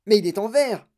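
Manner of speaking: high, loud stammered protest; alarmed yell. A narrator's reading. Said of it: "hurla grand-papa Joe".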